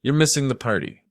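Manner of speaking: lightly slurred party invite; slightly slurring daughter. A narrator's reading. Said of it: "her voice slurring slightly".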